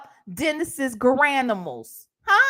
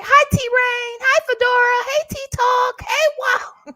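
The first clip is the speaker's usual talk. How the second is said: sing-song greetings; 10 semitones higher, 5 dB louder than usual. Real, not acted. High sing-song greetings to viewers.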